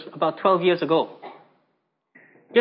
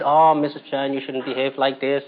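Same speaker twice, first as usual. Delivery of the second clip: mock soothing persuasion; 6 semitones lower than usual.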